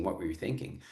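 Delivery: quietly, gently asking. Shown as a demonstration. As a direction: take the sting out of it, softly. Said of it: "a softer version of asking".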